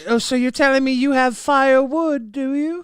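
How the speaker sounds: rough stab at flirty Kiwi; attempted Kiwi woman. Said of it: "That's my Kiwi voice".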